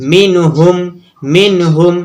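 short syllables in মিনহুম; quick, unstretched. Shown as a demonstration. Teacher shows students a word read promptly, মিনহুম unstretched. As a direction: say মিনহুম briskly, no held vowels. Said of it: "ঝটপট পড়বো".

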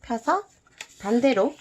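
ordinary delivery

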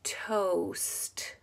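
"Toast" slow and soft, ending sounds drawn out; said slowly. Shown as a demonstration. Teacher helping hear the blend, "Toast" said slowly. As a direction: stretch "Toast" so the s and t show. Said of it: "Say it slow".

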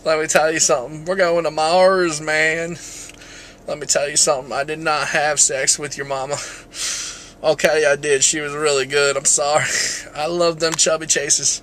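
lightly voiced Southern president; a hint of a folksy politician's impression; Bill Clinton. President denying, then admitting an affair, light impression. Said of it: "I'm gonna do my Bill Clinton".

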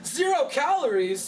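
shrieking ad voice. Acted. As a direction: blurt it like a crazed ad jingle. Sudden ad outburst interrupting.

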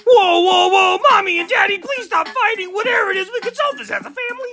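put-on whiny child voice. Child voice pleading with parents.

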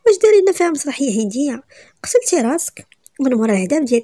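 mocking scolding. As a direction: scoff at her drama. Woman mocks the scene angrily. (توبيخ ساخر بصوت عالي)

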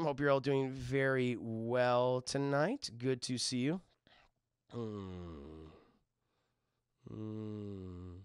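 put-on slow, low old man voice. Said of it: "I like my old man voice".

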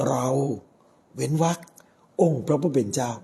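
เรา left hanging, then องค์พระผู้เป็นเจ้า; pause after เรา. Shown as a demonstration. Priest quoting God's promise to David, pausing after เรา. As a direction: hold a break between เรา and องค์พระผู้เป็นเจ้า.

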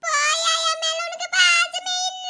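slow tearful whine; crying child. Acted. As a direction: drag it out through sobs. (மெதுவான அழுகைக் குரல்)

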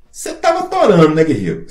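mocking accusation. Sergeant accuses soldier of sleeping.

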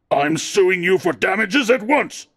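slow, loud words pounded out one by one; furious man pounds out his threat, slow and loud; hammering threat. A narrator's reading. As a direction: hit each word like a pile driver. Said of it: "like blows from a pile driver".

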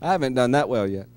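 shouting a frustrated prayer up high; mock-pleading prayer at full voice; mock desperate prayer. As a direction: cry out to God, hammed-up complaint.

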